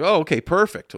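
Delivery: high, loud gleeful reply; imitating his own selfish glee; selfish delight. Hearing the friend's flight may be cancelled, gleeful. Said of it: "in a selfish way".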